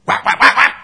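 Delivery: loud, high, staccato whacks; imitated spanking whacks. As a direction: punch out each whack like a blow.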